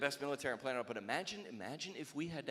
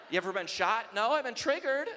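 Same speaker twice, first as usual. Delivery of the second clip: mock army exchange; 9 semitones higher, 9 dB louder than usual. Mock dialogue soldier and recruit.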